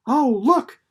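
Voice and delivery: high, loud delighted cry; excited cry. A narrator's reading. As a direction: call out in wonder. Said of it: "cried Winnie".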